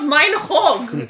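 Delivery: high, loud fake-German imitation; mock German accent. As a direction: quote him in laughing fake German. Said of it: "do a very bad accent".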